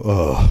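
low, let-down "oh"; disappointed crowd groan. Retold or imitated. Audience hearing a new song is coming, mock disappointed groan. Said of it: "you hear the entire room go".

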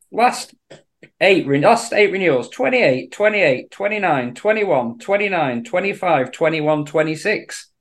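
rapid announcer-style number list; draw readout. Pretend. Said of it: "Beautifully done".

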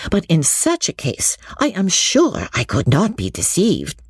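high-pitched, earnest character voice for Lucy; Lucy, earnest confidante. Acted. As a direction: play Lucy confiding at length, pitched well up. Reads Lucy's dialogue in character.

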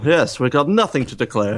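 lightly imitated suave English spy; touch of a suave actor impression; Moore. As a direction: deliver it like an urbane Bond. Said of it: "Moore could deli-, uh, deliver these lines".

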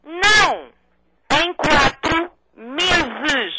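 slow, deliberate syllables; over enunciating. Real, not acted. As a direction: stretch every syllable out. Repete para quem não ouve. (articulando cada sílaba devagar)

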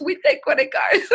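high-pitched, lightly imitated Asian accent; attempted Asian accent. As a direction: try her Asian accent, high and amused. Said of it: "in her accent, which I could not replicate".

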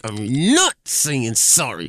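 put-on slow stubborn child voice; defiant kid. Dad imitates son refusing to apologize, slow stubborn. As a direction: drag it out like a stubborn boy. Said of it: "He was like".

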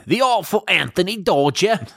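high, ringing theatrical echo; excited echo. Acted. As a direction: announce it grandly. Echoing the new member's name.

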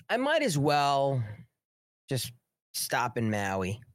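put-on a touch of indifferent old politician; mimicking Joe Biden. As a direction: stretch it out like a mocked careless president. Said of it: "This is Joe Biden speaking".

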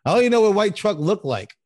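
high, laughing line; cracking up at his own joke. Real, not acted. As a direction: say it through a laugh.

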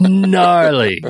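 punchy, lightly hammed Valley slang; a quick mock Valley Girl exclamation; Valley Girl speak. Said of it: "I'm gonna stop that".

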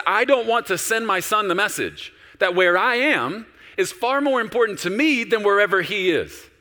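high, loud, voice straining with emotion; loud emotional plea to God. Retold or imitated. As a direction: plead with God, close to tears. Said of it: "I started to get emotional".

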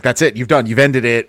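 normal talking voice

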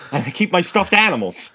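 naive wisher. Acted. Man turning down a genie's wish, mild mock plea. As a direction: voice a simple wish-maker. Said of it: "and he's like".

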